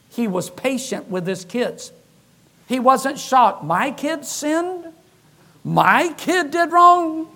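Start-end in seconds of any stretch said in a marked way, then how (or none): 3.6-7.3 slow, drawn-out mock disbelief; exaggerated pretend outrage at the kid; mock shock. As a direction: play the shocked parent, stretching each word out. Mock shocked parent quote.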